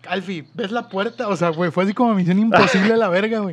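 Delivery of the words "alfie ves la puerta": quiet. Retold or imitated. Whispered escape instructions on phone.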